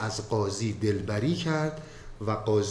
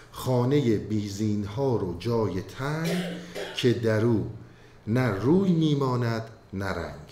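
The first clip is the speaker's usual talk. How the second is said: poem recitation. Acted. Recites Masnavi verses.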